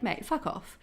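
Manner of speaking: "Mate, fuck off" said fond and teasing, "fuck" lifting; a friendly, loving insult; affectionate "Mate, fuck off". Shown as a demonstration. Explaining Aussie slang to viewers, affectionate teasing. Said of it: "one is very affectionate".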